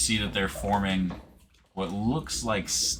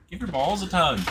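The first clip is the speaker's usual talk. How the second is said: Canadian catchphrase; 12 semitones higher, 4 dB louder than usual. Pretend. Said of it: "going Canadian".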